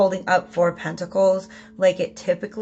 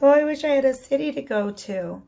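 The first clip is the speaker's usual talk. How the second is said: raised-pitch, wistful put-on lament; mock sad; 6 semitones higher than usual. Reader voicing the woman who left the city, mock sad. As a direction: lightly act a forlorn wish. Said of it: "she's wandering around sad".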